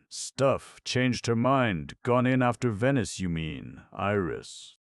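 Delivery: alarmed retort. Acted.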